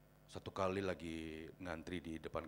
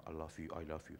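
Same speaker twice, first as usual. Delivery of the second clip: retold pupil remark; 5 semitones lower, 5 dB quieter than usual. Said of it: "satu murid bilang begini".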